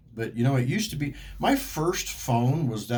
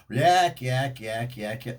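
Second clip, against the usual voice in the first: 1 mock yakking; 2 semitones higher, 3 dB louder, much slower than usual. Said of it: "like this".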